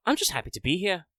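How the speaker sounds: cheerful voice through laughter; laughing. Retold or imitated. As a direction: say it laughing, high. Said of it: "Matthias Gladden was probably just gonna be like".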